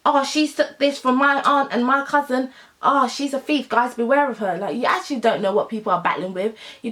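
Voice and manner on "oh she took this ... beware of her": higher-pitched mock alarm; mock call-out. Imitating someone warning others of a thief, mock alarmed. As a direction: imitate a gossip sounding the warning.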